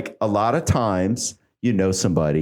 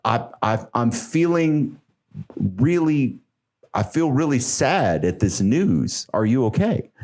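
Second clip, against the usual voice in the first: slowed, earnest condolence, pitched up a little; mock sincere sympathy; 2 semitones higher, slower than usual. Friend comforting someone after sad news, earnestly sympathetic. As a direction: lay it on thick with sympathy. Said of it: "You can say like".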